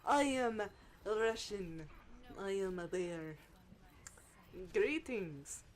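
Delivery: emphatic mock-Russian strongwoman; hammed-up Russian game-hero voice; Zarya. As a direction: boom it out like a Russian bear. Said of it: "when it comes to Zarya".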